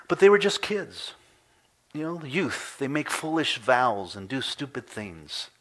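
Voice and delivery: high-pitched mock protest, starting loud; mock excuse. Voices an excuse for youth.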